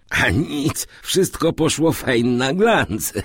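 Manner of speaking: high-pitched, amused servant's report; chuckling servant. A narrator's reading. Servant tells his master it burned clean, chuckling. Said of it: "Zaśmiał się rechocząco".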